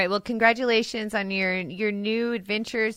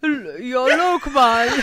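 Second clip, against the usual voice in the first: louder, slow mock Jamaican drawl; Jamaican accent; 5 semitones higher, 9 dB louder, slower than usual. Coworker trying a mock Jamaican accent on the name. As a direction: lay on a jokey Jamaican accent. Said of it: "Why is he Jamaican?".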